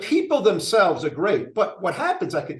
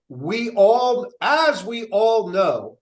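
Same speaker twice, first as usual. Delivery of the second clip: slow, hammed-up proclamation of a devoted Trump fan; quoting a Trump fan; 2 semitones higher, slower than usual. Mayor mocking the Trump guy at meetings, slow solemn proclamation. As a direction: drag each phrase out like gospel, pitched up.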